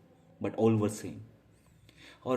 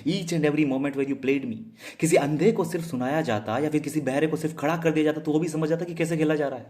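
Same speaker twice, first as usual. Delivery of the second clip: higher-pitched, fast, heated outpouring; indignant protest; 4 semitones higher, 3 dB louder, much faster than usual. Real, not acted. Wronged lover protesting at being played, indignant and fast. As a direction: pour out the grievance in one rush.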